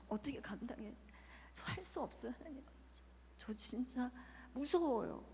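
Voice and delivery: soft, halting plea with breathy breaks; retold tearful prayer. Mother asking God how to raise her child, tearful pleading. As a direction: recall a despairing, frightened prayer. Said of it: "계속 울면서 계속 그 얘기만 반복하면서".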